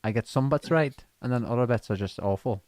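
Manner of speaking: tentative Scottish accent; attempted Scottish accent. Shown as a demonstration. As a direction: try on a Scottish accent, unsure of it. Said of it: "can you do Scottish?".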